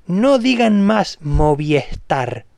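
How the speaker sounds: no digan más Movistar said slowly, word by word; slow it down and plead; slow plea. Real, not acted. Begging Spanish speakers, slow and deliberate. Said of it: "por favor".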